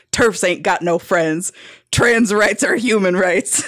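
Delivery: slow, lightly voiced cowboy; a hint of rough cowboy, taken slowly; gruff cowboy. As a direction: imitate a cowboy, unhurried. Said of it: "a rough, gruff cowboy voice".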